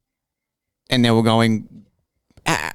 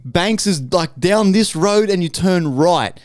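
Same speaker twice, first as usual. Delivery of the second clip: slow explaining; 6 semitones higher, slower than usual. Retold or imitated. Explaining directions to confused tourists.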